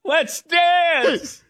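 high-pitched, playful movie-quote outburst; mock rallying cry. Joking about Footloose with the hosts, mock rallying cry.

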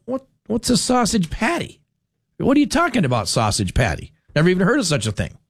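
high, puzzled questions, a touch of mock disbelief; baffled child. Host recalling his childhood breakfast order, mock baffled and high. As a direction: replay a confused kid hearing about sausage patties.

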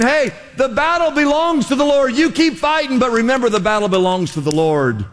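rally the fighter, then bring it down to steady assurance; preacher's urgent battle encouragement, pitch stepping down; David. Acted. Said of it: "he's David saying".

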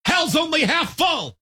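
put-on high-pitched old-timey holler; retold shout. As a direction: call it out high, as if to a passing car. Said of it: "would have been shouted from one Model T".

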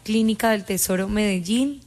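measured, even breaking-news delivery; level, factual on-air announcement; news report. Real, not acted. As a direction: report it like a radio bulletin.

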